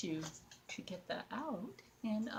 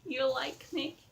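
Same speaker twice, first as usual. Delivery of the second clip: lightly put-on, higher doll voice; doll's voice; 4 semitones higher, 4 dB louder, slower than usual. Doll greeting the viewer, lightly put-on higher voice. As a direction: speak up playfully for a staring doll. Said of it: "it's just staring at you saying".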